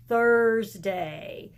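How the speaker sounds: Thursday with the tongue stuck out on th. Shown as a demonstration. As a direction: stick your tongue out for the th in Thursday. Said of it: "we're gonna have to stick our tongue out at the teacher".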